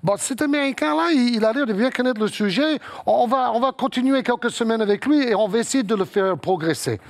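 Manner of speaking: a hint of the channel head giving his verdict; quoting the big boss. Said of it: "puis il dit".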